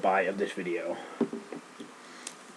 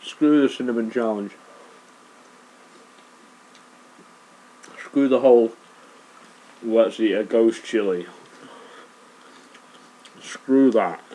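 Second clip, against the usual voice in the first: exasperated rant; 2 semitones higher, 8 dB louder than usual. Real, not acted. Ranting after burning bite.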